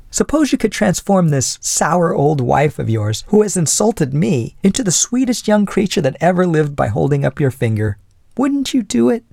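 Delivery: put-on high-pitched, provoking young lady; insolent. A narrator's reading. Young lady taunting husband about his old wife, high insolent voice. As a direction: push his patience with saucy insolence. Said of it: "she became more insolent than ever".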